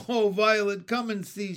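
high call, loud at the start. A narrator's reading. Jessie summons Violet to see the dog, calling out. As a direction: call her over in amusement. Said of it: "she called".

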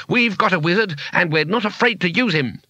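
high-pitched, contained shout. Acted. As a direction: warn off the mob, bluffing boldly. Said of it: "shouted Two-Flower".

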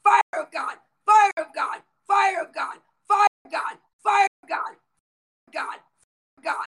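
full-force preaching, shouting the decrees over and over; a healing preacher commanding demons out, every line hammered home; fiery preaching. Acted. Preacher commanding healing over livestream viewers, fiery shouted decrees.

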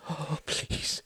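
whispered desperate plea; terrified whisper. A narrator's reading. The editor begs his torturers, whispered terror. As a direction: breathe the plea out.

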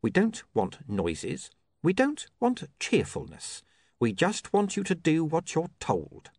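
lightly voiced slow, measured thug; measured, controlled criminal; menacing Mister Pin. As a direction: spell it out slowly, a touch of threat.

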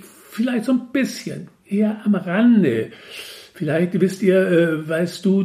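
stammering it out nervously; hesitant. A narrator's reading. Narrator answers the four-faced god hesitantly. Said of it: "gab ich zögernd so".

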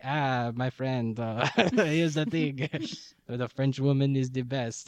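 slow, drawn-out mock detective, breaking into a laugh; Poirot. Imitating the detective baiting the American, slow and laughing. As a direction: lightly imitate a detective, amused. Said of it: "And so Poirot going like".

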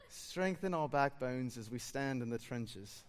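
slow, laughing attempt at a South African accent; a friend's South African prayer, fumbled through giggles. Pastor imitating his South African friend's prayer, South African accent. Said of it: "an accent that I'm gonna attempt to do".

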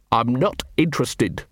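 ordinary delivery

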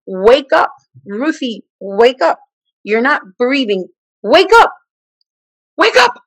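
urgent yell building to a high, loud scream; imitated scream. Holy Spirit screaming at a sleeper who stopped breathing, imitated urgent yell. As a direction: escalate into a re-enacted wake-up scream. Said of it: "hearing someone yell, scream at me".

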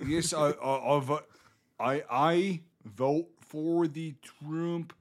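slow, halting mock American accent; Brit attempting American accent. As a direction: labour into a fake American accent. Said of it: "They have to breathe".

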